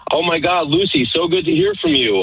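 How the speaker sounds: high, gushing fake delight; squealing hello, hammed up; mock gushing. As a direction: gush like an old friend. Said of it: "So we're like".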